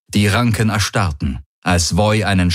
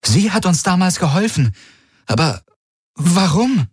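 astonished; 10 semitones higher than usual. Acted. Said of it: "blinzelte erstaunt".

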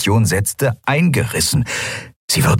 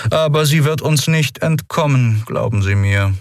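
higher, cool, relishing threat; cold officer; 7 semitones higher than usual. A narrator's reading. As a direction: savour the thought. Monaro continues coldly.

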